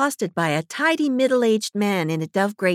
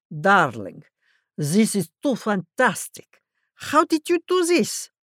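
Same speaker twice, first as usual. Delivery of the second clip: a voiced old auntie rising into delight; gushing auntie. A narrator's reading. Auntie Eva fingers the hippie's shirt, gushing. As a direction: gush over it like a thrilled aunt.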